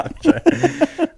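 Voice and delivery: high laugh through words. Real, not acted. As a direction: giggle out the words. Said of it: "while you're trying to get rid of them".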